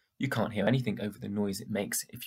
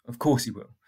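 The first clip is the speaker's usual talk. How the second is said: forced positive; 4 dB louder than usual. Acted. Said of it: "trying to sound positive".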